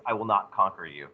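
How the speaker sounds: mock German love line. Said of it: "the closest way to say I love you".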